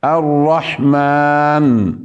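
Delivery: الرحمن slow with the ن shown; الرحمن بنون ظاهرة; clear final nun. Shown as a demonstration. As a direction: let the ن of الرحمن sound. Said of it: "لا بد أن تظهر".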